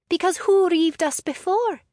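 high, loud, combative question; heated retort. Acted. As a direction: hurl the question back. Heated retort in clan quarrel.

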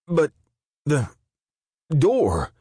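high, frightened voice breaking upward; cling to a desperate hope; fearful question. Acted. Guard asking Fallon, high and scared. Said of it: "He stared with hope".

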